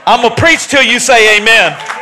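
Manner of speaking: loud, fired-up preacher call; preaching shout. Real, not acted. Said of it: "No, I'm still gonna preach".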